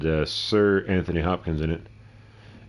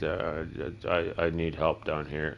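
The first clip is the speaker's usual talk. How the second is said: meek creature voice; 6 dB quieter, much slower than usual. Retold or imitated. Creature in the book talking.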